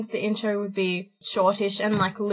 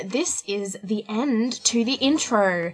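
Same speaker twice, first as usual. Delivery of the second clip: slow, announcer-style read; newsreader voice. Acted. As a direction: read it like a news anchor. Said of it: "I'm putting on my newsreader voice".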